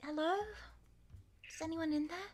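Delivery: small, soft, hesitant, timid voice. Narrator voicing someone knocking at the door, a timid little voice. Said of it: "a little timid voice outside".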